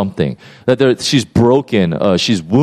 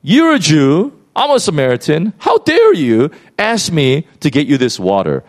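antagonistic; 4 semitones higher than usual. Retold or imitated. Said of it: "so antagonistic".

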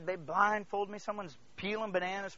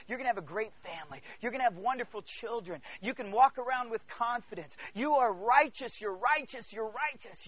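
encouraging voice; 2 semitones lower than usual. Acted. Spirit encouraging believers about their lives, warm and building. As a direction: start gently, gradually lift with conviction.

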